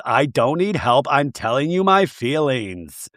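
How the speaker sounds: slowing, stretched-out mock weepy insistence; lightly hammed-up sobby complaint; mock sobbing. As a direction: imitate tearful protest, dragging the last words. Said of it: "You're sobbing".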